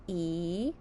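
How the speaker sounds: E-N-A-F said sound by sound, each one separated. Shown as a demonstration. Teacher sounding out enough to young readers, each sound apart. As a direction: break E-N-A-F into single sounds. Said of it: "Let's sound it out".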